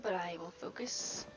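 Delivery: play-acting a determined vow to focus; mock solemn resolve. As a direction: build into a forceful, breathy mantra. Mock vow to resist distraction.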